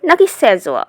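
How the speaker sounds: asking if সেজোয়া is the right sound; correct way asked. Shown as a demonstration. Teacher asks the class about সেজোয়া. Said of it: "কোন উচ্চারণটি সঠিক?".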